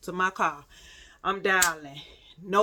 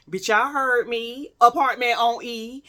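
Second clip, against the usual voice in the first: insistent, punched-up restatement; emphatic repeat; 2 semitones higher, 4 dB louder than usual. Retold or imitated. Storyteller makes sure y'all heard, emphatic repeat. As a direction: drive it home to the audience.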